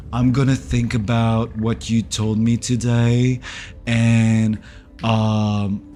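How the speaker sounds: a hint of low, deliberate mimicry; ex's measured reply. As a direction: retell his measured, noncommittal answer.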